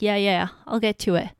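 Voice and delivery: dismissive brush-off. Retold or imitated. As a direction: lightly mimic a husband brushing her off. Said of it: "He'll be like".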